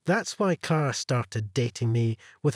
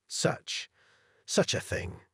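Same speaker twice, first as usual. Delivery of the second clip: shaken, breathless whisper; trembling whisper; 4 semitones higher, 5 dB quieter, slower than usual. Acted. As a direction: gasp it out in shock. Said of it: "Director Flint trembled".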